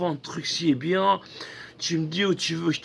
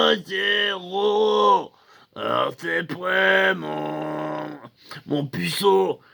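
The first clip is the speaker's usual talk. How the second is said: slow, brash, half-shouted greeting; hammed-up tattooist calling his client a virgin; mock macho tattooist; slower than usual. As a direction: lean into a cocky tattoo-guy swagger.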